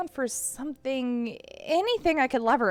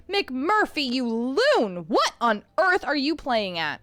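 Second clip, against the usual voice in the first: scolding; 4 dB louder, slower than usual. Acted. Scolding the cat after rescue.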